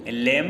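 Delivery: लैम with a B released after the M; the wrong लैम, final B voiced; B sounded. Shown as a demonstration. Teacher rejects the misreading, लैम with the B pronounced. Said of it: "लैम नहीं पढ़ते हैं".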